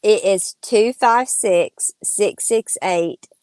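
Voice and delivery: slow and carefully spelled out; over enunciating. Shown as a demonstration. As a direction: say each digit slowly for writing down. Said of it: "give your phone number one more time slowly".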